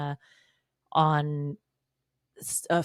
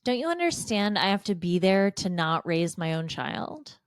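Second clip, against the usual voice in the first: mocking husband voice; 2 semitones higher than usual.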